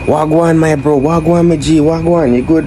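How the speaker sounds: high, eager put-on Jamaican slang; mock Jamaican greeting. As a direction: imitate foreigners trying out Jamaican patois. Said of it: "People are trying to say".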